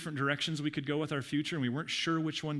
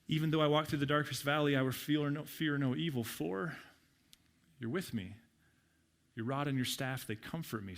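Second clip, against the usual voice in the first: scripture reading, fading. Acted. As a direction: let the verse fade away to a hush. Reads psalm, fading at end.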